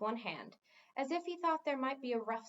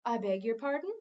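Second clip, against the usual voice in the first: dignified; 5 dB louder than usual. Acted. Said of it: "Mendabar said with dignity".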